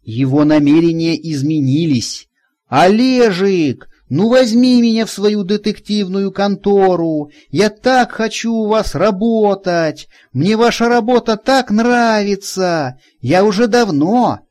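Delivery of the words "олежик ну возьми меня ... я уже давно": pleading. A narrator's reading. Zhenka begging the detective to take him on, high and wheedling. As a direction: beg in a high, imploring voice. Женька voiced begging for a job.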